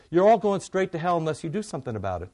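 a touch of fire-and-brimstone preacher; John the Baptizer. Retold or imitated. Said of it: "John the Baptizer sort of limits it to".

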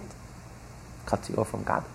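slow, hushed whisper; slow, soft whisper of warning. Real, not acted. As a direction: drop to a grave whisper. Preacher drops voice for emphasis.

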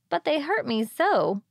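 put-on high, plaintive girl voice; young mermaid complaining. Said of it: "said the little mermaid".

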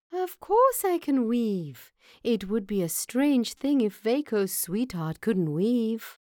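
high-pitched mouse voice, self-assured; confident little mouse. Acted. Mouse assures Vaco she can weave, confident.

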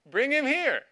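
high, loud and slow, with a laugh; playful woman's demand. Retold or imitated. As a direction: play the woman coyly insisting he come to her. Teacher voices the woman's suggestion.

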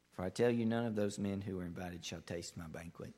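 measured Bible reading voice; scripture reading. Acted. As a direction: read the parable steadily, like scripture. Scripture reading within sermon.

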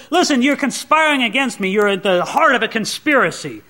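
accusing king. Acted. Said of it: "he starts laying into Ahimelech".

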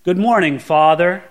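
measured, proper address; formal greeting. Shown as a demonstration. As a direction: greet a father with respectful distance. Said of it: "It's the difference between saying".

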